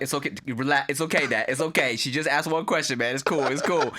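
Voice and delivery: calming dad down. Retold or imitated. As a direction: talk an angry dad down gently. Son soothing angry dad.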